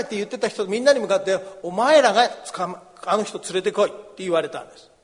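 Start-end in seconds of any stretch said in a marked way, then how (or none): 1.6-3.9 stern command. Acted. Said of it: "かなり厳しい言い方です".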